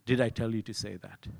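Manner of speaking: quick, sharp question; quick rebuke. Retold or imitated. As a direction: fire it off with quickness. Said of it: "this quickness".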